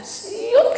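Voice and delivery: high, drawn-out whoosh noise; swooping "siut". Retold or imitated. Imitates a sudden swishing movement. (bunyi "siut" melengking panjang)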